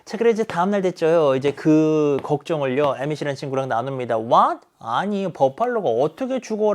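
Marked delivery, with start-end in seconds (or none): 4.2-6.7 incredulous friend. Retold or imitated. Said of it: "라고 이제 에밋이 물어보죠".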